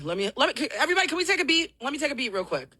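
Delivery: out of breath. Real, not acted. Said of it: "still trying to catch my breath".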